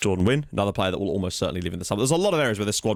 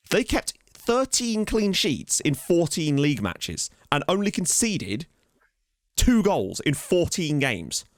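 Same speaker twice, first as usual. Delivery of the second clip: amazed; 6 semitones higher, much slower than usual. Real, not acted. Reading unbelievable stats.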